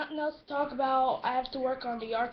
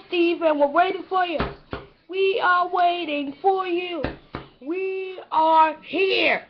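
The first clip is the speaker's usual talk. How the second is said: calling out; 4 semitones higher, 4 dB louder than usual. Acted. Calling a character out, slow.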